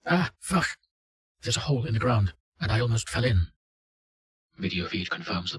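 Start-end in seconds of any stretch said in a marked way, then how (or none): 0.0-3.5 sudden frightened yell; startled yell. Acted. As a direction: shout it out high and startled. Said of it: "the subject yells".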